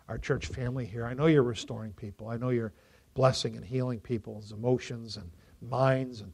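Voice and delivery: earnest congregational prayer. Acted. Pastor prays aloud over the congregation, earnest. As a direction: pray over the whole church.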